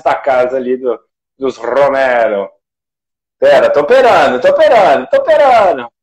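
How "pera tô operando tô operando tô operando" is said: getting more worked up each time; half laughing, pitch climbing; rising flustered insistence. Real, not acted. Host juggling technical problems live.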